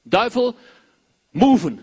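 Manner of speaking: loud, sharp command; commanding shout. Acted. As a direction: chase the devil away. Preacher commands the devil. (luid bevel aan de duivel)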